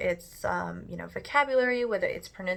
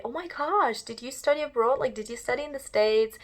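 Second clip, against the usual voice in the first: imitating an impressed listener, pitched up; amazed questioning; 5 semitones higher than usual. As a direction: gush in mock amazement, higher than usual. Voicing amazed people who ask her.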